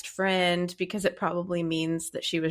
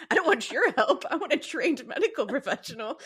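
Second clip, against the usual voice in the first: laughing mock husband; 7 semitones higher than usual. Acts husband's reply, laughing.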